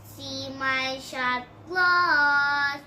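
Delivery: slow and loud, menacing; menacing threat. Pretend. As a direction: drag it out like a monster boasting. Dinosaur threatens, showing claws.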